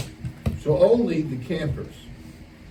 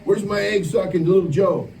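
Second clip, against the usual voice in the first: calling out; 5 semitones higher, 4 dB louder than usual. Real, not acted. Calling for camper Little Joe.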